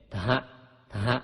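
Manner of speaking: "ทะฮะ" run together as dha; aspirated Pali consonant. Shown as a demonstration. Teacher demonstrates Pali letters to readers, h-blended "ทะฮะ". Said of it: "กล้ำหอหีบเป็น".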